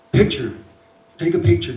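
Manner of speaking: eager guide calling out; pushy tour guide. Retold or imitated. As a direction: hustle the tourists into the shot. Guide urging them for photo.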